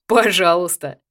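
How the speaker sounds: a wry, mocking you're welcome; ironic. A narrator's reading. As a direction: toss back the irony. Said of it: "также иронично заметил Яр".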